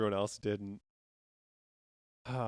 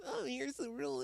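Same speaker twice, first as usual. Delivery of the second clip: mock nitpicker; 13 semitones higher, 6 dB quieter than usual. Mocking a nitpicking manager.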